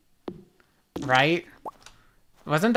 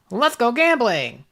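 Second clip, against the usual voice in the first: meme catchphrase; 5 semitones higher than usual. Retold or imitated. Quoting the meme.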